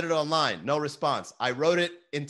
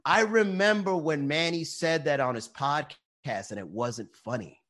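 slow, lightly put-on grumbler; drawn-out, lightly mocking recollection; mock complaining viewer. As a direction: mimic a fan who was not impressed. Mimics a carping viewer.

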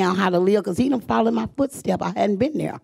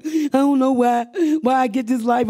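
crying; 6 semitones higher than usual. Retold or imitated. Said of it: "I was crying".

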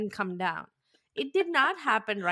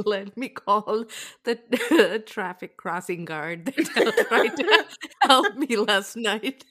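laughing mock quote; 3 dB louder, slower than usual. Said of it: "She's like".

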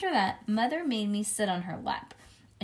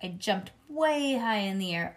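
usual speaking voice

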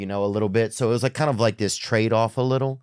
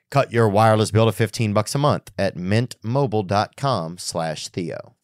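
clear, measured podcast ad read; sponsor ad read. Real, not acted. Host pitching Keeps and Mint Mobile to listeners, ad read. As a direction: read the sponsor copy crisply and evenly.

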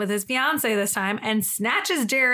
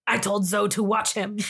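pimp's voice. Retold or imitated. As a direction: lightly voice the pimp. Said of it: "That's how he talks in the movie".

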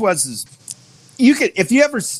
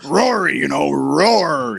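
imitating the promoter's slow roar; 3 semitones lower, slower than usual. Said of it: "But he's like".

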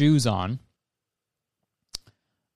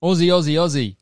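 put-on Australian accent; 4 semitones higher than usual. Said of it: "I can't even do an Australian accent".

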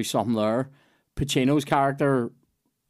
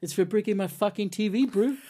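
1 attempted South African accent; 7 semitones higher than usual. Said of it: "That was Taika Waititi".

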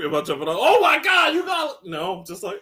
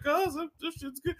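mock fan gushing; 12 semitones higher, 8 dB quieter than usual. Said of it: "Y'all the main ones like".

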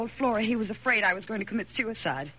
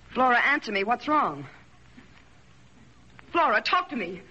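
urgent pleading; 4 dB louder than usual. Acted. Wife pleads with silent maid.

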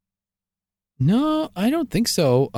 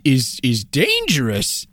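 lightly voiced old prospector comic; folksy old miner telling a joke; 4 semitones higher than usual. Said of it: "old prospector does a tight five".

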